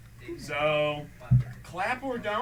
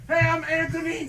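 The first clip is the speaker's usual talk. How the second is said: cocky lab guy; 14 semitones higher, 8 dB louder than usual. Retold or imitated. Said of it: "I just imagine a guy like".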